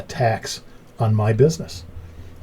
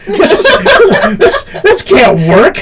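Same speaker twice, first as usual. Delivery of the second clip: shocked realization; 12 semitones higher, 9 dB louder, slower than usual. Retold or imitated. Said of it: "it's that realization going".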